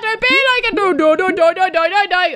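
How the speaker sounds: high, loud laughing plea; real giggling protest; laughing pleading. Real, not acted. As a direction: beg through laughter.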